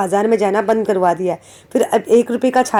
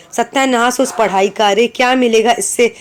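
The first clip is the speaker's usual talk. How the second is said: a touch of exasperated scolding; mildly angry grandmother. Acted. Teacher reads grandmother's rant against schooling to children, mildly angry. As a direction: read it as a grandmother's mild grumbling outburst. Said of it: "दादी गुस्से से".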